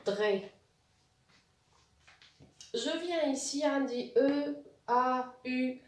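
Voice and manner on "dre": "dre" sounded out as one slow blended syllable; syllable reading. Shown as a demonstration. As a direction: blend the letters into a drawn-out "dre". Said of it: "ça donne".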